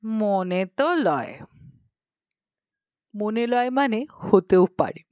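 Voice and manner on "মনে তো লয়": Bidhukhuri's stock phrase. Acted. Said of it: "তার এক কথা".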